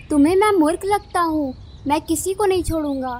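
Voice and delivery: loud, defiant bird villain; menacing kite villain. Acted. Kite refuses to let anyone go, loudly threatening. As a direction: open with a loud, scornful challenge.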